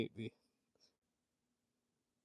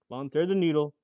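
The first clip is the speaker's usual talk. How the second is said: louder, frustrated plea; exasperated shout; 4 semitones higher, 8 dB louder than usual. Real, not acted. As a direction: yell at the needle. Exasperated at needle.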